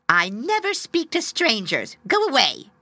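loud, stiff, unfriendly tree; cold, loud willow tree. Acted. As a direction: send the stranger off loudly. Willow sending bird away.

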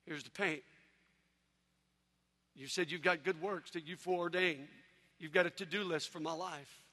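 soft, humble prayer; quiet surrender prayer. Retold or imitated. Believer surrendering his life to God, quiet and humble. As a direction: give it all up gently to God. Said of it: "All I said was".

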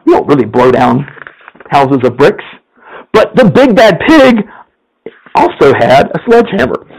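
lively storyteller reading a fable to the congregation; story narration. A narrator's reading. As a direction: tell it like a bedtime tale, playful. Pastor reads a story aloud.

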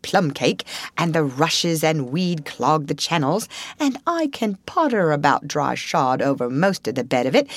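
lightly voiced, river-loving Rat; enthusiastic Rat. Rat praises river life to Mole, fond enthusiasm. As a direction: relish each item with a lilting swing.

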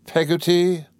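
high, indignant questioning of PEGGOTTY. A narrator's reading. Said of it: "repeated Miss Betsy with some indignation".

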